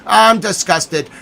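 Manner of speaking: slow, drawn-out I'm disgusted; theatrical disgust; mock disgust. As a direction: lean into hammed-up revulsion. Mock disgust, slow second take.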